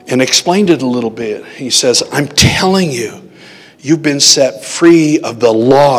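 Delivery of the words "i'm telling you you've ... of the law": slow emphatic insistence on each phrase. Retold or imitated. The voice insisting to the sleeper, emphatic. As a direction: press the point home slowly. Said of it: "the voice became emphatic".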